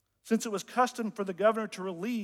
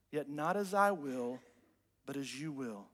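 soft, lower, sinking to very quiet; retold prayer; 5 semitones lower, 9 dB quieter than usual. Preacher voices Jesus praying in the garden, hushed prayer. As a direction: let the retold prayer fall away into quiet submission. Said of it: "fell with his face to the ground and prayed".

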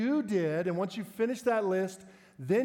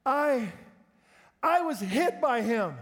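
high, slow, louder through laughter; kid obeying rule; 5 semitones higher, 4 dB louder, slower than usual. Retold or imitated. Boy obeying the I rule, slow and high while laughing. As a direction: grudgingly start with I. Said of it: "And then he went".

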